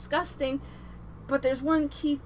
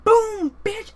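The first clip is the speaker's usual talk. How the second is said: higher and louder, hammed-up dismissal; mock slam-down; 8 semitones higher, 10 dB louder than usual. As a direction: drop it like a harsh verdict. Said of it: "No, he's like".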